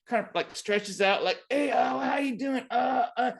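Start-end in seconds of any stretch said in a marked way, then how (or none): 1.5-3.3 high, casual cat greeting; falsely friendly cat. Retold or imitated. Cat sidling up to writer, high mock-friendly voice. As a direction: imitate a cat acting all friendly. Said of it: "looks like he's all friendly".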